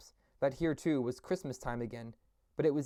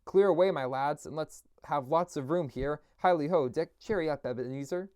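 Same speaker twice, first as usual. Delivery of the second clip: louder, cheerful orders; jovial shout; 2 semitones higher, 4 dB louder than usual. Acted. Old master ordering the floor cleared, jovial shout. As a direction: call the lads to clear the floor. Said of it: "Fezziwig shouting orders".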